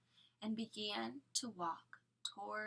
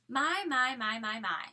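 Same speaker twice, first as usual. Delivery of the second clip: a louder, higher smug villain's "my, my"; sly villain Stefano; 4 semitones higher, 8 dB louder than usual. A narrator's reading. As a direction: savour it like a cunning villain. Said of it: "said a voice from behind them".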